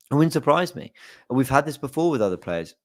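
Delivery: talking through hiccups; hiccuping between words. Real, not acted. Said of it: "Excuse me, I'm hiccuping".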